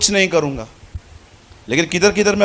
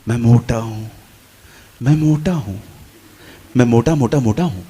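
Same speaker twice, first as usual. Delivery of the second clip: louder brooding; 7 semitones lower than usual. Retold or imitated. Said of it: "अब मैंने इन शब्दों को ले लिया".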